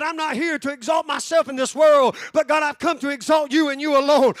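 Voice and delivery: loud, impassioned cry to God; preacher voicing a believer's prayer, shouted. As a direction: cry it out like a vow. Voices a prayer of surrender.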